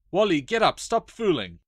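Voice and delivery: high and loud, desperate call; a frightened sister shouting at her brother; urgent calling. Acted. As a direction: yell at him to get up. Girl calls to fallen brother.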